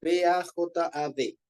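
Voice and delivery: slow letter-by-letter spelling; spelled out. Shown as a demonstration. Teacher spelling a Hebrew word for the class, spelled out slowly. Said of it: "pero con D al final".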